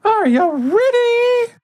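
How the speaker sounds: loud, booming, drawn-out high voice; booming arrogant alien overlord. Acted. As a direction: boom it out like a cosmic overlord. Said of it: "a loud booming voice".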